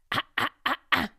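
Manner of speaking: teacher demonstrates the rock distortion sound, gritty ah; distorted ah. Shown as a demonstration. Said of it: "This is the distortion sound".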